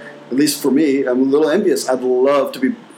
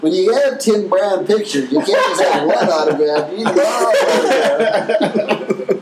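nerd voice; 3 semitones higher, slower than usual. Acted. Mocking with nerd voice, laughing.

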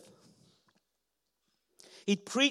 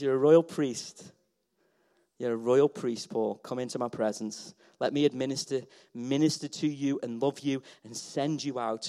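soft voice of God; 7 semitones lower, 6 dB quieter than usual. Acted. Voicing God, soft and low.

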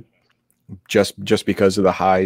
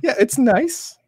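sarcastic; slower than usual. Acted. Ironic praise of a song.

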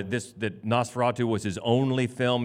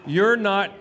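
mock surprise; 12 semitones higher, much slower than usual. Host reacts to a fan's dress.

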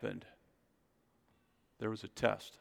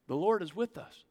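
calming; 6 semitones higher, 4 dB quieter than usual. Pretend. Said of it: "calm them down and say".

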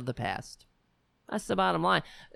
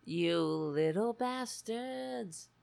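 quiet mock curse; 3 semitones higher, 6 dB quieter, slower than usual. Real, not acted. Cats ignore her.

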